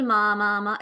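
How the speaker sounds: three even repeats of "माँ"; demonstrated babbling. Shown as a demonstration. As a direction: chain "माँ" like a babbling baby. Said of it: "ऐसे बोल रहा है". (बच्चे जैसा दोहराया "माँ")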